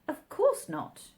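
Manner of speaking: high, quick ready answer; ready reply. A narrator's reading. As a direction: answer at once, sure of herself. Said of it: "Alice replied very readily".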